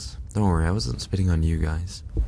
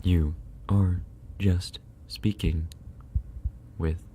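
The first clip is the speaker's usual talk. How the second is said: plain; 3 dB quieter, slower than usual. Shown as a demonstration. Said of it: "I could also do".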